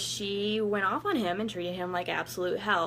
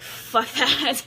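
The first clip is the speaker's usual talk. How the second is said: louder and higher, laughing through it; laughing defiance; 7 semitones higher, 7 dB louder than usual. Retold or imitated. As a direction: spit it out with a laugh. Fierce vow picturing the rival.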